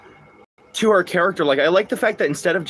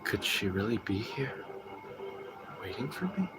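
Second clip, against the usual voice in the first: hushed, much softer wondering question; James line; 4 semitones lower, 15 dB quieter than usual. Acted. Streamer quoting James from Silent Hill two, hushed and wondering. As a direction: breathe it out, unsure and hushed. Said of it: "without being like".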